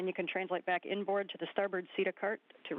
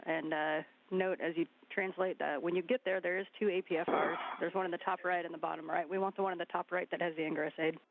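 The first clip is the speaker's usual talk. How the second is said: crackly radio transmission; over a space radio link; sci fi communicator. Real, not acted. Spacewalk radio loop instructions.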